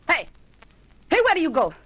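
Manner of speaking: high, loud furious yelling; angry shouting. Acted. Josephine yells at the men sneaking upstairs, furious. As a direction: yell at them to come back down.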